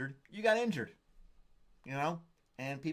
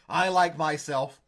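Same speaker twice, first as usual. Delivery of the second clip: laughing; 4 semitones higher, 7 dB louder, slower than usual. Real, not acted. Laughing at own joke.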